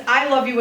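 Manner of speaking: "I" picked out as the contrast word; stress on I. Shown as a demonstration. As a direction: lean on "I" to mean nobody else. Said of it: "as opposed to somebody else loving you".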